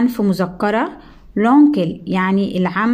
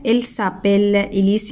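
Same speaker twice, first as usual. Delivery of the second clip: slow model phrase; slower than usual. Shown as a demonstration. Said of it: "teacher models French phrase".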